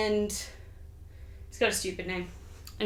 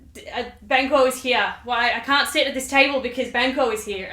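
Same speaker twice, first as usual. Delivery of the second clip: mock freak-out; 5 dB louder than usual. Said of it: "he freaks, just freaks out".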